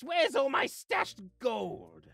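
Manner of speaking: slow, loud outraged demand; indignant demand. Acted. Demanding the missing stashed gold, indignant. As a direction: cry out, drawing it out in outrage.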